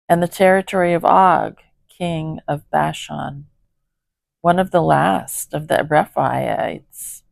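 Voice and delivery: slow, grand epic scripture voice; biblical epic narrator. Shown as a demonstration. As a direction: read it like an epic Bible narrator. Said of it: "I was trying to sound like a good Bible narrator, but I goofed it up".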